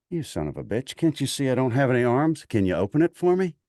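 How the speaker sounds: rising mock outrage, deadpan; mock indignant. Armless sergeant pranking the private, mock outrage rising. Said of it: "He did that with a straight face".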